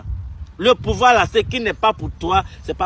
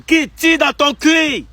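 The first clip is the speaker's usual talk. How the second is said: angry curse; 4 semitones higher, slower than usual. Real, not acted. Cursing the president.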